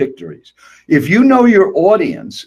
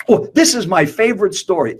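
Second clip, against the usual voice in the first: self-absorbed speaker; 4 semitones higher than usual. Retold or imitated. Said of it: "I hear speakers say that".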